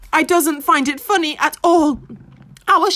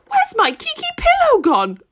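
puzzled high cry; 11 semitones higher than usual. A narrator's reading. Pig wakes confused.

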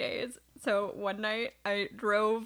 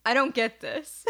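mock confused friend; 3 semitones higher, 4 dB louder, slower than usual. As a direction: drag it out puzzled. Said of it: "No, you said".

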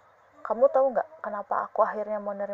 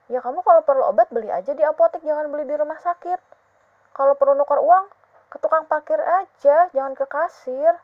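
raised voice, pitched up high; heated insisting; 6 semitones higher, 7 dB louder than usual. Acted. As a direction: insist loudly, getting worked up. Jealous girlfriend insisting heatedly.

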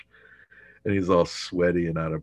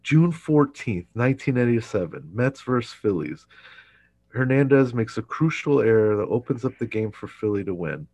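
dramatic testimony; 5 semitones higher, 6 dB louder than usual. Retold or imitated. Newman's grave testimony of the game.

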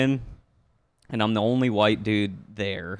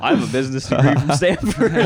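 mock boastful; 5 semitones higher, 8 dB louder than usual.

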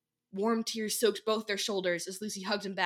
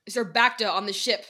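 demanding; 5 dB louder than usual. Acted. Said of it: "Dekai demanded".

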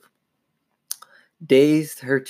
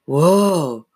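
drawn-out, higher-pitched exclamation; startled cry; 5 semitones higher, 4 dB louder than usual. A narrator's reading. Sister seeing the dummy move, startled. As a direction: cry out in alarm.

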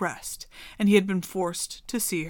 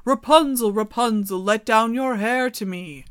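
louder call up to the tower; 5 dB louder than usual. Acted. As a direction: call up to her window. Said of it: "king's son came and cried".

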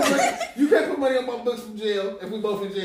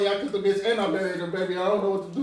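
mock panicked partner; 4 semitones lower than usual. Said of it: "you done came here talking about".

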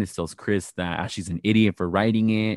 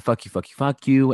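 imitating angry cursing; 4 semitones higher, 5 dB louder than usual. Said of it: "Candace gets mad".

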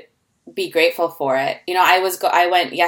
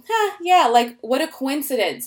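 casual dismissal; 5 semitones higher than usual. Acted. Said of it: "just look at this and go".

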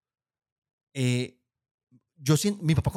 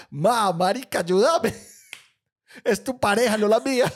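exasperated plea; 5 semitones higher, 4 dB louder than usual. Retold or imitated. Pleading with mom, rising.

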